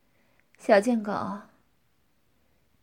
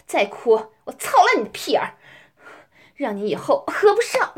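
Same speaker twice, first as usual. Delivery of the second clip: fierce threat. Acted. Threatening partner in dominant roleplay.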